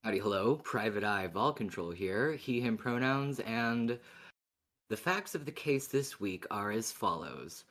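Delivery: detective recap read, lightly performed; case summary read. Acted. Co-host recaps the case facts for listeners, mock detective briefing. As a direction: lay out the facts like a private eye's briefing.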